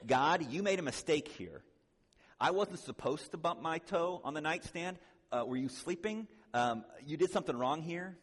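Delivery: loud, indignant griping at God over a stubbed toe; angry complaint to God. Retold or imitated. Preacher voicing an angry man blaming God for his stubbed toe, loud and indignant. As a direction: accuse God, loud and aggrieved. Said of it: "when I get angry, what am I really communicating theologically to God?".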